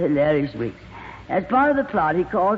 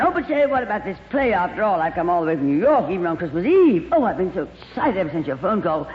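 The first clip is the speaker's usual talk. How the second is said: gushing glamorous actress; faster than usual. Acted. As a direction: coo over him like a diva. Plays Lorraine.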